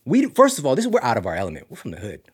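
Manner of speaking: retold freak-out, pitch leaping up; imitating freak-out. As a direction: squawk it like a panicking friend. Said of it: "John was super freaking out".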